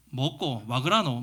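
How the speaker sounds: lightly imitated Busan dialect, 그라노 with a low Gyeongsang lilt; mock a Busan pastor answering the phone; 부산 사투리 흉내. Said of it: "막 이제 부산말을 쓰는데".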